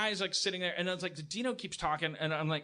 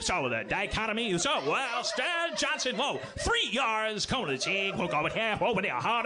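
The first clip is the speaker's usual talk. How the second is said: imitating a TV sportscaster; 2 semitones higher than usual. Mocking the bar TV's game to his friend, in a mild sportscaster voice. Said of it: "do my impression of the sounds coming from the T V".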